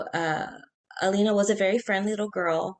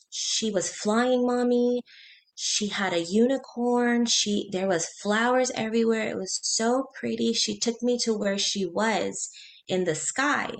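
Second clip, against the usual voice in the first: lightly voiced four-year-old, slow and a little higher; Emma's child retelling; 3 semitones higher than usual. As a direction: retell it as a wondering small child, drawn out. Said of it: "That, she goes".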